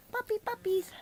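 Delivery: high sing-song call; puppy call. Real, not acted. Owner calling the puppies, high.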